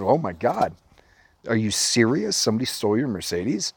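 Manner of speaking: feigned shock, lilting up and down; playing dumb. Son feigning ignorance about mom's stolen car, playing dumb. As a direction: pretend to be astonished, without raising volume. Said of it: "I'm playing dumb".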